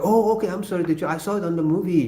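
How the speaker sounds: a hint of a sheepish kid saying sorry; imitating a student. Student apologizing to his teacher, light mock voice. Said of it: "I said, so".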